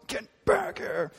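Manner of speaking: high, slow mock call to a kid; lasso-style yank of a call; mock harsh call. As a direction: call the kid back sharply. Harsh parent roping a kid.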